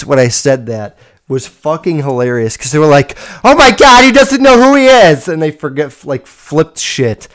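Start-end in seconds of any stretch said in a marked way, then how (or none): 3.4-5.3 higher and louder, mock panic; panicked alarm. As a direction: imitate them freaking out. Staff panicking over dazed student.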